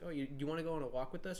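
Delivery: monotone voice. Retold or imitated. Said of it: "it's very monotone".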